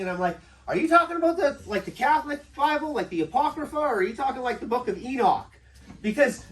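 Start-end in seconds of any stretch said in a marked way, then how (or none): 0.7-5.5 incredulous. Retold or imitated. Retold reply, raised voice.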